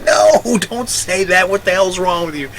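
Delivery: high, alarmed, with a nervous laugh; panicked hushing. Retold or imitated. Clerk hushes Walter about the tax, high and alarmed. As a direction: stop him before anyone hears.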